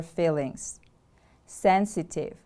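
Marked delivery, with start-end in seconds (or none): 1.5-2.4 "Sensitive" with the stress on SEN; stress on first syllable. Shown as a demonstration. Teacher models the word for learners, stress on SEN in "Sensitive". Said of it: "The stress is on the first syllable".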